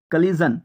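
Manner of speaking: কলিজন with its ending said "zon". Shown as a demonstration. Teacher showing the suffix sound, কলিজন ending in "zon". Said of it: "এখানে জন উচ্চারণ হবে".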